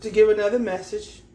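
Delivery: words broken by a burp. Real, not acted. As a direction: talk through a burp. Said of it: "excuse me for the burp".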